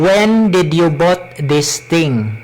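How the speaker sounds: heavy Cebuano-accented English. Shown as a demonstration. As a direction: read it in thick Bisaya English. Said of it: "I will speak in my Cebuano accent".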